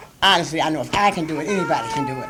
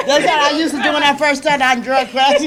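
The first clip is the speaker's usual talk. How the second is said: laughing and talking higher and louder, tears close; a real laugh that covers the crying; laughing through tears; 8 semitones higher, 6 dB louder than usual. Real, not acted. Recalling her first days in drug court, laughing through tears. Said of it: "I don't wanna cry".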